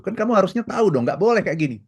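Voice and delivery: high, indignant self-importance; mock outraged "I'm important"; retold angry boast. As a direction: puff up like an offended boss. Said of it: "dia marah sekali dan dia memaki".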